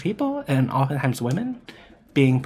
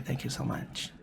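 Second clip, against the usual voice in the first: whispered thanks; 3 semitones lower, 11 dB quieter than usual. Real, not acted. Thanking friend, closing aside.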